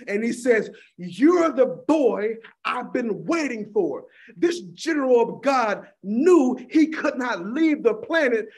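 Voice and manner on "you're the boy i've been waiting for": put-on slow, weak old man voice; frail old man. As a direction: speak it slowly like a frail dying elder. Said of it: "came down the stairs slow and frail".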